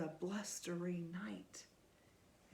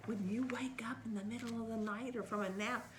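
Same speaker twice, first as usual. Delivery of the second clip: whispering; much faster than usual. Real, not acted. Fast aside to child.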